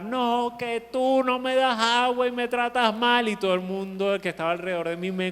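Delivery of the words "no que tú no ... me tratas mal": put-on crying child. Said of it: "Comenzó a llorar".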